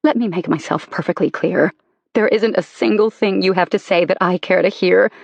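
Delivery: wounded wife tearing into husband; bitter anger. Acted. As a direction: throw every betrayal back at him. Wife confronting lying husband.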